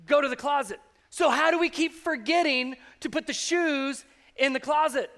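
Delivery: a parent fed up with shoes left out; exasperated parent. Retold or imitated. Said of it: "We've all looked at our kids and said".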